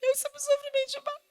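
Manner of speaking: high teasing ironic voice; mock sympathy. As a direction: exaggerate a fake gasp of pity. Mother mocks daughter's drama. (falsa pena, em tom alto e irônico)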